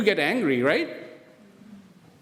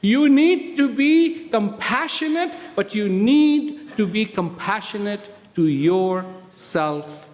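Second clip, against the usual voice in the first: slow insistent preaching; much slower than usual. Acted. Slow preaching build with drops.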